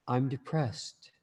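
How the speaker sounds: slow, drawn-out "I'm depressed". Shown as a demonstration. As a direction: say it heavily, dragging the words out. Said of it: "paint them with a certain color of, of, of feeling".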